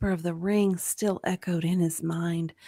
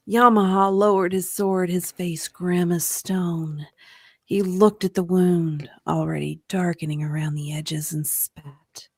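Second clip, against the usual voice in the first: grave storyteller's reading; story narration; 3 semitones lower, 3 dB louder than usual. A narrator's reading. Narrator describing Yamaha examining the wound, grave narration. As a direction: drop away grimly at the end.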